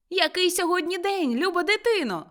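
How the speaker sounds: high, excited question; eager repeated call. A narrator's reading. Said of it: "повторив Скрудж".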